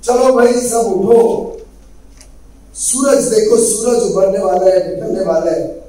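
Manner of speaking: lightly acted uncle rousing sleepy children; uncle's wake-up call. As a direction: imitate an uncle calling everyone awake. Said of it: "that's how he had said it".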